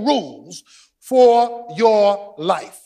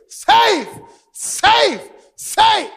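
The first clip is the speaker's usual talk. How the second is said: high excited shouts of safe; cheering safe; 11 semitones higher, much slower than usual. Retold or imitated. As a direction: cheer it like the home team. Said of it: "came out of the dugout cheering".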